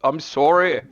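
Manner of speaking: playful put-on Scottish accent apology; a teasing Scottish accent, tossed off; mock Scottish accent. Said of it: "hard to understand you there with the, the Scottish accent".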